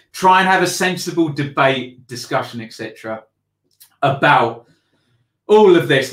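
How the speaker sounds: winded, out of breath from ranting. Real, not acted. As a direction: gasp it out, out of breath. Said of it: "I'm out of breath".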